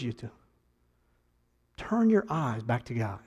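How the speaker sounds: hushed pastoral benediction; gentle closing appeal. Acted.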